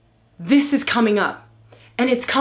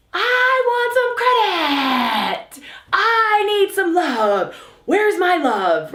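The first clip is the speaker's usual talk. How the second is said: whiny mother; 10 semitones higher, much slower than usual. Retold or imitated. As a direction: wail for credit like a needy mom. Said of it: "mom's like".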